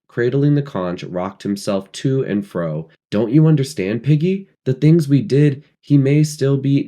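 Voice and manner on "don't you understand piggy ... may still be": high, loud anguished plea; distressed. A narrator's reading. Ralph pleading with Piggy, high and anguished.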